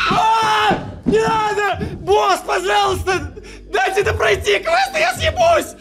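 frantic pleading shouts; real panic, begging; panicking gamer. Real, not acted. Horror game chase, begging boss.

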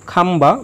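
খাম্বা said as kham-ba, the b clearly sounded; খাম্বা with a full b after m; unaltered ব. Shown as a demonstration. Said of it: "বয়ের উচ্চারণ অবিকৃত থাকবে".

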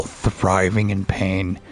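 slow, low venomous cursing; low seething curse. Real, not acted. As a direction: spit it out slowly with hatred.

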